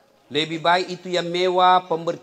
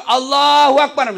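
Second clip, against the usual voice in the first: imam's takbir; 10 semitones higher, 10 dB louder than usual. Retold or imitated.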